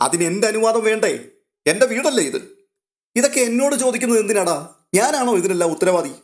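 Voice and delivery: indignant father demanding answers; irritated outburst. A narrator's reading. Stanley irritated with servant. (ഉയർന്ന സ്വരത്തിലുള്ള ദേഷ്യം)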